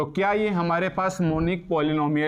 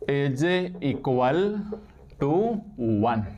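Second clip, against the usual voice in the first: very slow, with pauses between words; dictation pace; much slower than usual. Real, not acted. Teacher dictating a condition to students, very slow. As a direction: dictate slowly, stretching each word.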